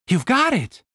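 high cheering praise; excited. Acted. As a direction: encourage them brightly. Catherine encouraging.

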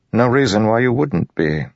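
polite but guarded lord; wary nobleman. Acted. Narrator voices Royan.

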